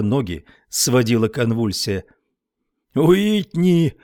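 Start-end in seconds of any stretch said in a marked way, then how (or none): 2.9-3.9 a high, panicked yell; terrified man yelling to his friend; yelling name. A narrator's reading. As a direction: bellow for help. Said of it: "орал Стерджис".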